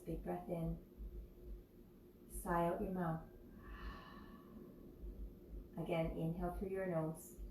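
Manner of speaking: calm breathing cues with long pauses; guided meditation. Real, not acted. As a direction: lead the breath unhurriedly, leaving room between cues. Leads opening deep breaths.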